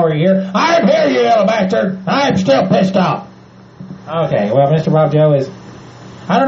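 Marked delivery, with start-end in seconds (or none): 0.5-3.3 put-on cranky old hick yelling; angry redneck character. Bob Joe snapping at the host, angry hick voice. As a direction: bark it like a grumpy old man.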